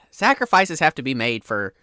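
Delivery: lightly voiced fisherman, sighing and defensive; a cult-like fisherman justifying himself; flustered fisherman. Fisherman explaining his sacrifice to the player, mildly defensive.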